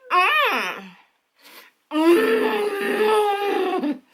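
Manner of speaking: rising, savoring hum; a pleased, tasting hum; yummy mmm. Real, not acted. Tasting chocolate.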